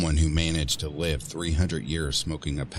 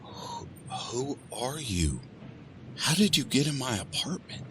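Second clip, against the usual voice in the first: frightened; 10 semitones higher than usual. Acted. Frightened woman questioning voice.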